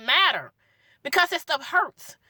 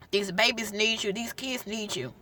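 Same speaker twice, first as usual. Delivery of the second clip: tearful; 5 semitones lower, 7 dB quieter than usual. Real, not acted. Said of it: "I'm sorry for crying".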